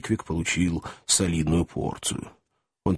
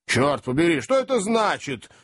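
startled host's outburst, pitched up; alarmed exclamation; 8 semitones higher than usual. A narrator's reading. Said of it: "воскликнул хозяин".

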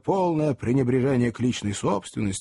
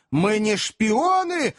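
high, very slow protesting cry; earnest wail; 8 semitones higher, much slower than usual. A narrator's reading. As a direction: cry out your innocence, stretching the words. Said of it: "завопил мистер Пиквик таким голосом". (протяжный искренний вопль)

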